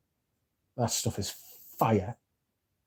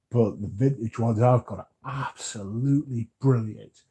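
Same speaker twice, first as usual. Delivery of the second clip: talking through a yawn; words stretched by a yawn. Real, not acted. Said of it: "Excuse me whilst I yawn".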